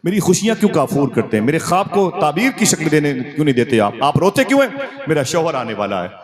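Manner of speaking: high, urgent pleading to the weeping crowd; Amina's pleading. Acted. Amina begs the weeping tribe to stop crying, high pleading. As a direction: plead with the mourners not to cry. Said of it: "मैंने कहा".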